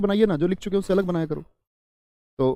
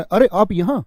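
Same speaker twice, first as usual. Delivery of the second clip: ऊँची आवाज़ में चौंककर "अरे आप यहाँ"; अचानक किसी को देखकर हैरानी; आश्चर्य; 6 semitones higher, 5 dB louder, slower than usual. Shown as a demonstration. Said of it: "आश्चर्य". (हैरानी से ज़ोर देकर बोलें)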